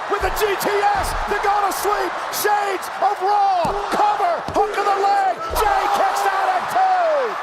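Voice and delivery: fast excited play-by-play; wrestling commentator. Real, not acted. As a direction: ride the near fall with energy. Live wrestling call, near fall.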